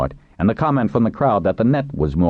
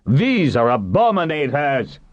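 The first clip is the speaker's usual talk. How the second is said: disgusted denunciation; 10 semitones higher, slower than usual. A narrator's reading. Captain turns on captives with disgust.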